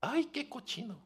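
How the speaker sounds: hammed-up grossed-out mother; disgusted. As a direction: squeal in exaggerated revulsion. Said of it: "¿cómo se siente por ver popó del bebé?".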